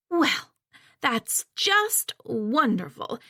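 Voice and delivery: slow, sarcastic drawn-out wonderful; mother's sarcastic remark. Acted. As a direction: say it with dripping sarcasm.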